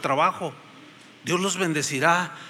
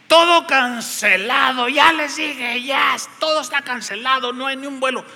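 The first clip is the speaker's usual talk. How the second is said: impatient clerk; 6 semitones higher than usual. Retold or imitated. Airline clerk turning away yet another traveller, fed up. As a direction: brush him off, tired of saying it.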